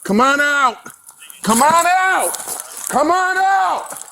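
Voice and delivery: loud commanding call, rising high; shouted surrender demands. Real, not acted. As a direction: bellow it out to the suspect. Officer calling suspect out.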